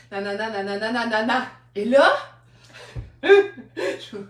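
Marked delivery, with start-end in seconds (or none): 0.1-1.5 blah-blah filler. Retold or imitated. Glosses over rest of speech.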